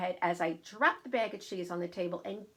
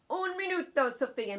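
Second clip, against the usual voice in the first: baker's call; 10 semitones higher, 6 dB louder than usual. Acted. Baker answers child.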